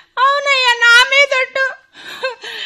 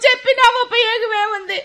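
weeping complaint; crying; 4 dB quieter than usual. Acted. Wife weeps to her husband that she can't go on. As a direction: sob out the complaint.

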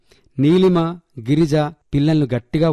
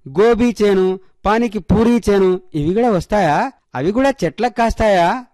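put-on high-pitched child reasoning aloud to mummy; curious little girl; 6 semitones higher than usual. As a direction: ask eagerly in a child's high voice. Voices curious small girl. (కుతూహలంగా అడిగే చిన్నపిల్ల గొంతు)

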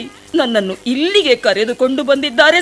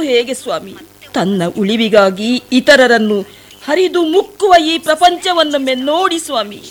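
a pleading, sorrowful plea to the sage; tearful pleading. Acted. Shabari pleads at the sage's feet, tearful. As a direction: beg the sage to open his eyes, close to tears.

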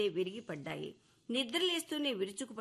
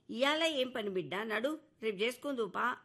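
insisting. Acted. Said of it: "అంది అవ్వ బలవంత పెడుతూ".

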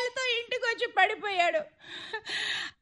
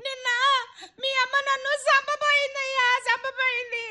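tearful complaint. Acted. Wife tearfully complains of mother-in-law.

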